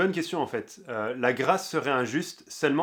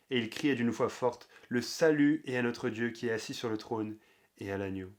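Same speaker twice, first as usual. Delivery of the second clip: measured solemn Bible reading, falling phrase ends; scripture reading. Acted. Reads Apocalypse 7 aloud. (lecture solennelle de la Bible)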